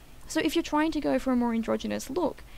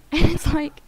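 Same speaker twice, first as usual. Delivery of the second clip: laughing; 5 semitones higher, 9 dB louder than usual. Real, not acted. Laughing while recounting.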